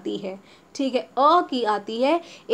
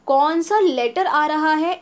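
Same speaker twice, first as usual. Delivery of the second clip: slow, louder, pointed stress on कौन सा letter; teacher emphasis; 4 semitones higher, 5 dB louder than usual. Shown as a demonstration. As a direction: lean on कौन सा letter slowly. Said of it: "teacher stressing key point".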